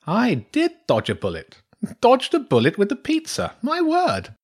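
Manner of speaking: high-pitched, marvelling badger; astonished badger priestess. Badger priestess relieved she did not eat him, astonished.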